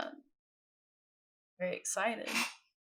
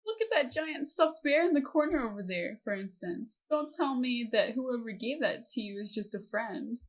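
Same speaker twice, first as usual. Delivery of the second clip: lively auntie voice, starting high and settling; teasing auntie; 3 semitones higher, 3 dB louder than usual. Acted. Auntie prying about a giant stuffed bear, teasing. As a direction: tease a niece about a secret admirer.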